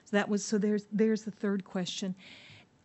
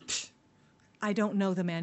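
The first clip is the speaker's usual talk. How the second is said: dismissive; 2 semitones lower, 3 dB quieter than usual. Acted. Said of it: "So dismissive".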